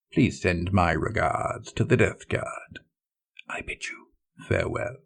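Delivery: quiet, cold contempt; a soft, sneering farewell; contemptuous. Acted. Traitor bidding the doomed captain farewell, contemptuous. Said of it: "his contempt was far too obvious".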